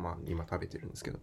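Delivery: talking through a mouthful of sweets; quick, muffled words while chewing; mouth full. Real, not acted. (口に物を入れたまま)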